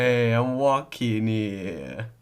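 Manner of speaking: slow, drawn-out West Country drawl; teasing West Country imitation; mock West Country. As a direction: mimic a West Country accent. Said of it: "I'm from the West Country".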